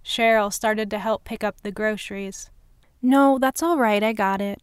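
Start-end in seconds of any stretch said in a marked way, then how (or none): 3.0-4.6 in a rush. Acted. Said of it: "I said in a rush".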